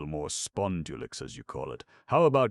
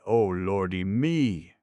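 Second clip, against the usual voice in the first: groaning; 4 semitones higher, 6 dB louder, slower than usual. A narrator's reading. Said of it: "Groaning, he sat down".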